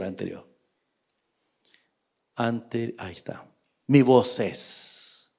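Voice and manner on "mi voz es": soft, slow, humble reply; subdued, reverent acted voice; respectful. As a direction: answer the king low and deferential. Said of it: "El respeto que le tenía David".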